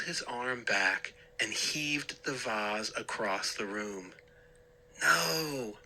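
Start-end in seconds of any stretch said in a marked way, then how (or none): 5.0-5.8 high cry of horror; a high horrified no; horrified scream. A narrator's reading. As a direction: shriek it in panic. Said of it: "I let out a scream of horror".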